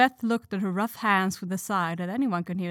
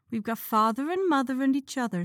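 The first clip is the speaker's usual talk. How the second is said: contented; 5 semitones higher than usual. A narrator's reading. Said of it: "said Beth contentedly".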